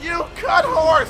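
drawn-out shout at the horse. Real, not acted. Gamer yelling at a horse again, slow shout. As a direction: drag the shout out, slowly. Repeats louder, slower.

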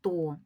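"то" alone, held as one syllable; isolated syllable. Shown as a demonstration. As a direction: sound out "то" as a separate beat. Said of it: "це другий склад".

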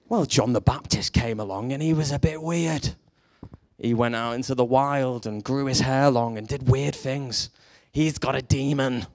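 disapproving religious leader, lightly voiced; put-on Pharisee voice. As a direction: imitate a sniffy religious critic. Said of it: "They said it just like that".

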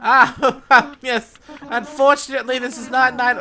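put-on high, fussy old owl woken from sleep; flustered owl curator, high and loud; voiced sleepy owl.

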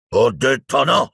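high, slow, forceful cry; shouted refusal. A narrator's reading. Death Eater forbids Greyback, shouted. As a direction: cry it out, weighting each word. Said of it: "gridò l'uomo".

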